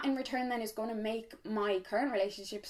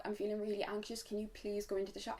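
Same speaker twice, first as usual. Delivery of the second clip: soft, small, anxious asking; timid request; 10 dB quieter than usual. Retold or imitated. Asking her boyfriend to go into the shop, softly and timidly. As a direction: ask softly, as if afraid to be a bother. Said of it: "I'd be like".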